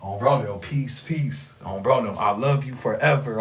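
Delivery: a low-pitched imitation of his homie bro; imitating bro. Imitating his homie bro's sign-off, in a low voice. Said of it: "let me be bro real quick".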